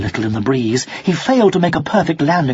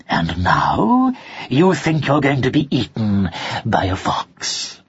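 lower, sly fox finishing his sentence; a sly fox voice teasing; sharp nasal fox; 4 semitones lower than usual. Acted. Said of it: "a sharp, rather nasal voice".

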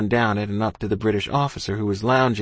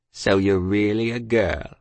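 leering soldier; 2 semitones lower than usual. A narrator's reading. Soldier presses close to child.

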